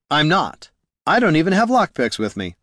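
protesting rogue. Acted. Haraldin protests.

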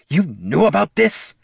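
high, voiced indignant question; accusing hiss. A narrator's reading. Bard seizing the dwarf's arm, indignant accusation. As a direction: confront him, tense and accusing. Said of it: "he hissed".

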